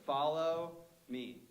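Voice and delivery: 'Follow me' said very slowly and firmly; slow final command. Shown as a demonstration. The preacher voicing Jesus calling disciples, slow and firm. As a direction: stretch it out, no question. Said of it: "That's it".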